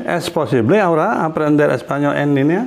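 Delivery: rising end on "línea?"; question intonation. Shown as a demonstration. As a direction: lift the tune up at the end as you ask. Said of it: "intonasi tanya".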